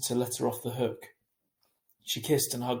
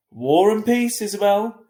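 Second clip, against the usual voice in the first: loud, high teasing call; 10 semitones higher, 11 dB louder than usual. A narrator's reading. Dad calling back to Mum, loud and high. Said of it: "he called out".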